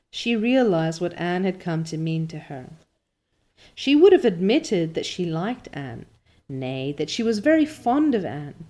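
measured, expressive storytelling; story narration. A narrator's reading. Reader telling listeners of Anne's fall, story narration. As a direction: read it like an audiobook narrator. Reads the novel aloud.

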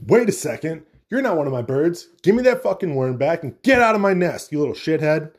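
lightly voiced angry mother bird; mock angry mama bird. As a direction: chase off the thief, mildly hammed-up. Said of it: "Mama Bird's like".

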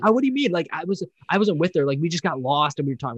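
a hint of a caught guy acting innocent; mock defensive Dale. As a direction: play dumb, voice up high. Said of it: "Dale was being weird about it".

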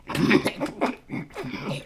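quiet fake cough. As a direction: cough weakly. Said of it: "Sorry, I have a cold".

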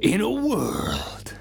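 nineties trailer voiceover. Pretend. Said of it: "the style of the nineties trailer voiceover man".

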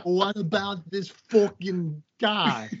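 slow, high-pitched mock Italian accent. Shown as a demonstration. Host showing co-host a better try, slow exaggerated Italian accent. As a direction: drag it out in a hammed-up Italian accent. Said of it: "do a better Italian accent".

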